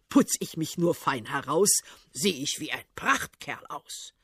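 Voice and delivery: lightly voiced tsar, proud and preening; vain old tsar. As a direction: puff himself up. Tsar boasting of himself.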